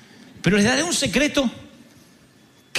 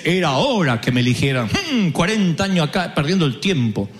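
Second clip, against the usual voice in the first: lower, self-satisfied boast; smug mock Moses; 7 semitones lower than usual. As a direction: play a smug hero. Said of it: "No dice". (Moisés presumido, en burla)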